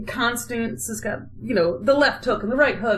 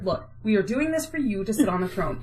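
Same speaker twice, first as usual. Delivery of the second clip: quieter, lower exasperated explanation; fed up; 3 semitones lower, 4 dB quieter than usual. Retold or imitated. Constance lecturing her son about the throne, fed up. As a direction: lay it down with strained patience. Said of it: "And Constance just fed up".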